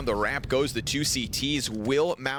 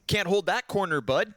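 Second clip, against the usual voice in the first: put-on Canadian accent; 3 semitones higher than usual. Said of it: "Sorry, Canadian for a second".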